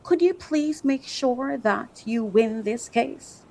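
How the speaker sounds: soft, slow and overly polite; hushed, drawn-out pretend pleading; mock meek request. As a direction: ask timidly as if afraid to offend. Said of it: "you expect me to come and say what".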